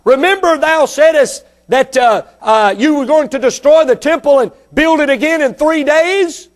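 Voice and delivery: preacher imitating scoffers; mocking. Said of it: "they begin to mock Him".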